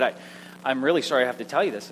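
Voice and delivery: quick, low sheepish apology; mild mock-sheepish bus driver. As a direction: imitate a reluctant confession, hurried. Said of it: "kind of sheepishly".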